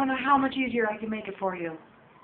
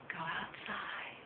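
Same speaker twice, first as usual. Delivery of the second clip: slow, much softer coaxing; 3 semitones lower, 16 dB quieter, slower than usual. Real, not acted. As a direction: hush it out gently. Coaxing a bird outside.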